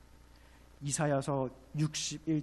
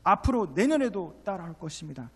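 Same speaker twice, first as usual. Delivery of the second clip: loud, raised preaching voice; forceful preaching; 7 semitones higher, 11 dB louder than usual. Real, not acted. Preacher warning the congregation of Egypt pursuing, forceful. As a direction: preach it out high and hard.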